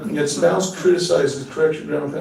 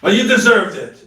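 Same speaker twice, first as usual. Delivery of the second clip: nasty husband; 4 semitones higher, 4 dB louder than usual. Retold or imitated. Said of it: "and he says".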